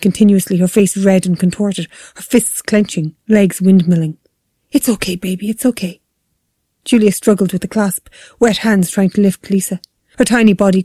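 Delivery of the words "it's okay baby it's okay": gentle hushed comforting; softened motherly reassurance; soothing. A narrator's reading. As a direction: soothe a crying baby while upset yourself. Mother soothing her screaming baby.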